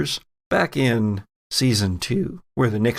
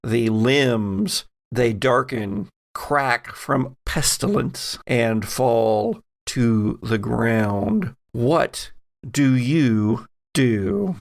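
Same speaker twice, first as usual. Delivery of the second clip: measured, slow scene-setting narration; game master scene narration; slower than usual. A narrator's reading. Game master describing the horseman rising from the grave. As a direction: set the eerie scene for the players.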